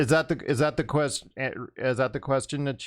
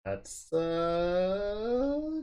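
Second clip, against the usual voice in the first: slow sarcastic; 7 semitones higher, 3 dB quieter, much slower than usual. Retold or imitated. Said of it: "I'm like".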